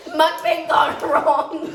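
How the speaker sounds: slow words through laughter; drawn-out laughing caption. Real, not acted. Laughing announcement.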